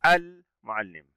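"المعلم" slowly, with the L clearly sounded; lam pronounced. Shown as a demonstration. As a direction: sound out the L in "المعلم", then pause. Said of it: "دعونا ننطق كلمة". (نطق «المعلم» ببطء مع إظهار اللام)

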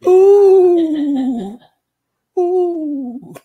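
loud high falsetto hoots; high falsetto ooh. Pretend. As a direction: squeal it up high.

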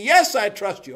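high, loud, eager agreement; desperate cliff man. Retold or imitated. Cliff man swearing trust to God, high and desperate. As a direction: cry it out in mock desperation.

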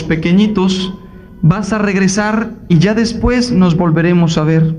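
voz más grave y pausada de Cristo. Acted. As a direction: habla como Cristo, grave y sereno. (el predicador pone voz a Cristo, grave y sereno)

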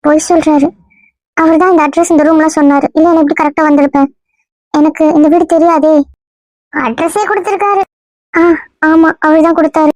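a lightly put-on female voice, playing the girlfriend; man passing himself off as a young woman; woman's voice. Disguised man fooling the family in a mild girl's voice. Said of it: "இன்னும் பொம்பளை குரல்ல தான் பேசுற".

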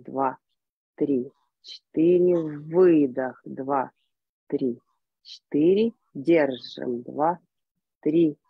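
slow, guided breath counting. Acted. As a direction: lead the group through each count. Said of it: "И поехали".

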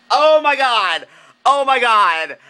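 high, loud, squealing gush; gushing excitement. Real, not acted. Fan gushing to viewers about the Tony Awards, high and loud. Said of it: "I'm so excited".

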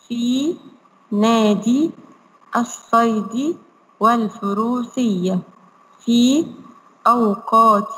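put-on slow syllable-by-syllable reading for children; slow model reading. Shown as a demonstration. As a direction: read each word slowly so the kids can repeat. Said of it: "قولوا بس وانتوا قافلين المايك". (قراءة بطيئة واضحة للأطفال)

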